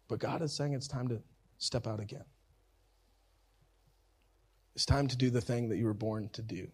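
softened preaching with long pauses; hushed sermon appeal. Acted. Preacher urging the congregation to step out again, hushed and earnest. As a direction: let each line land gently, leaving long silences.

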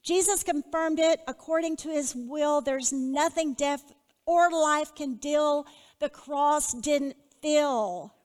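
reciting own verse to the congregation; reading her poem. Shown as a demonstration. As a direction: read it like a poem. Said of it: "phrases I wrote is".

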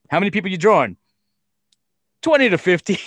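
high, loud, laughing through it; can barely say it for laughing. Retold or imitated. Retelling the tiny crowd to his cohost, laughing.

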